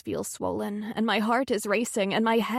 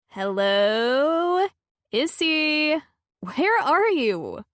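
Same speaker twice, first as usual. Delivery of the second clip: louder, higher calling friend; friend on the phone; 7 semitones higher, 5 dB louder, much slower than usual. Acted. Friend on FaceTime calling for Issy, louder worried voice. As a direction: call out for her friend on the line.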